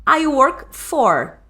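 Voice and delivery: slow, spaced-out I work for; slow demo phrase. Shown as a demonstration. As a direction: lay out each word slowly for students. (bem devagar, palavra por palavra)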